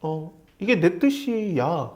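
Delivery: soft, slow, unhurried answer; hushed and drawn out, gently correcting; 하나님. Acted. God answering a questioning believer, softly and slowly. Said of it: "하나님이".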